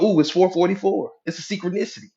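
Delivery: mock excitement. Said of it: "you get excited when you go".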